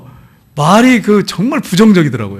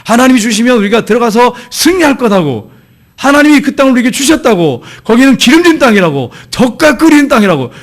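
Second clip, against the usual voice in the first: confident proclamation; 5 semitones higher than usual. Retold or imitated. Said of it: "그들은".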